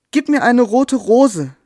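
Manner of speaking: a small bird's hopeful call. Acted. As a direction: call out eagerly, high and drawn out. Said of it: "rief sie".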